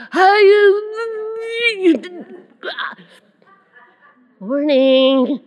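exaggerated high-pitched greeting; hammed-up morning hello, sent way up high; put-on high, drawn-out voice; mock morning greeting.

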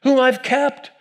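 wry Jewish lilt explaining the remnant; Jewish accent. Acted. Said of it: "not saying God spoke it with a Jewish accent".

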